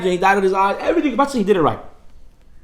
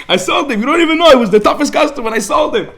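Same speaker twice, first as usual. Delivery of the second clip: excited boast; 7 semitones higher, 4 dB louder than usual. Retold or imitated. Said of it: "I sold the guy".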